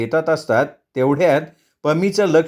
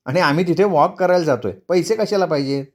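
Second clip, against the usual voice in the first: lightly voiced wife, slightly raised pitch; dismissive wife; 3 semitones higher than usual. Wife turns down husband's ATM card, breezily dismissive. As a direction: wave off the husband's offer.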